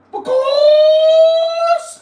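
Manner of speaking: "Because" squealed very high, long and loud; goofy punchline squeal of "Because" aimed at Kirsty; silly squeal. Acted.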